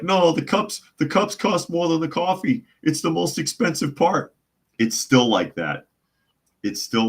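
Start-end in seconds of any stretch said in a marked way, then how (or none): 0.0-4.3 pitched way up, a whiny mock of the clerks; mock high clerk voice. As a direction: mimic the staff's excuse in a high voice. Mocking the clerks' excuse.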